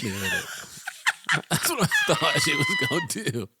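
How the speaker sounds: very high laughing retelling; squealing laugh. Real, not acted. Wife recounts the prank, squealing high with laughter. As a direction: squeal through the memory.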